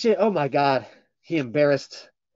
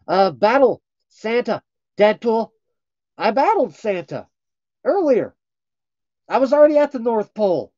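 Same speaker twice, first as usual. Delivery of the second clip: high, loud teasing Deadpool voice; playful high mock-flirty character voice; 8 semitones higher, 5 dB louder than usual. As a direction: tease them as a cheeky Deadpool.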